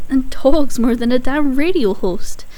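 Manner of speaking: loud, exasperated complaint. Acted. Ranting about that idiot nurse, exasperated.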